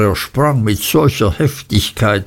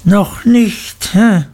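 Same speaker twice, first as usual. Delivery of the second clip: menacing schoolmaster's jeer; mocking echo; 10 semitones higher, slower than usual. A narrator's reading. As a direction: throw the words back with a needling "hä". Creakle mockingly repeats boy's answer.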